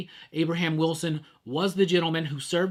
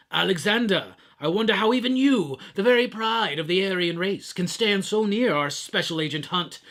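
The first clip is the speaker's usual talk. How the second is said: a hint of a sneering British baddie reading a threat; British villain voice. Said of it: "I'm gonna do my just British villain voice".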